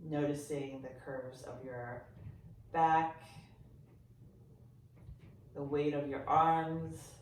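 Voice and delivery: gentle, softened body-scan voice with long pauses; guided meditation. Real, not acted. Yoga teacher guiding listeners to sense their body, calm meditation voice. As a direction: ease them into noticing, leaving silence between phrases.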